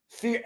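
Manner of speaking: F E A R letter by letter, slowly; spelled out for emphasis. Real, not acted. Speaker telling viewers what filled the feeds, spelling F E A R slowly. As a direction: spell F E A R out, each letter separate and weighty.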